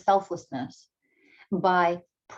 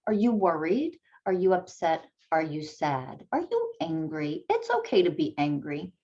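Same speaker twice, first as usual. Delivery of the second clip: asking gently. Shown as a demonstration. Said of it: "you're teaching them feeling words".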